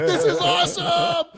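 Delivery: drawn-out, high shout of elation; hooting and hollering. Retold or imitated. Jumper re-enacting his descent under the chute, hollering. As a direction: whoop it slowly at full voice. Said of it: "I just start hooting and hollering".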